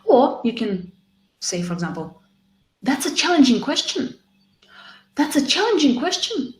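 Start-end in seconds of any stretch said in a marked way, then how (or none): 2.8-4.2 said high, with a rise on "challenging"; model phrase. Shown as a demonstration. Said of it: "repeat this phrase after me". 5.1-6.5 said high, with a rise on "challenging"; model phrase. Shown as a demonstration. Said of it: "repeat this phrase after me".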